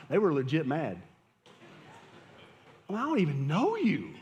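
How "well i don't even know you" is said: laughing it off, voice up high; a real laugh at the absurd complaint. Real, not acted. Pastor laughing off members who thought he spied on them.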